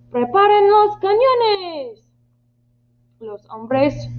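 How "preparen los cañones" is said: high, loud, drawn-out command; shouted order. Acted. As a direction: bellow the order to the crew. Captain orders reluctant crew. (orden gritada, aguda y alargada)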